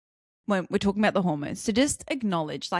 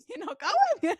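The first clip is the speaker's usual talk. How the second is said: high, drawn-out mock exasperation; hammed-up fed-up mum, pitched high; slow, high comic protest; 13 semitones higher, slower than usual. Acted fed-up mum, then laughs.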